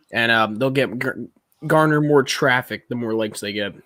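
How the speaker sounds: talking while crunching chips; munching on chips. Real, not acted. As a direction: speak through a mouthful of chips. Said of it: "munching on chips right now".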